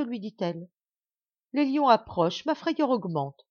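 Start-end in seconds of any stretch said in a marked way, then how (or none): 1.5-3.5 higher, louder, slowing panic; rising fear. Acted. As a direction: let fear take over. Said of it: "la peur me fera mourir". (frayeur croissante)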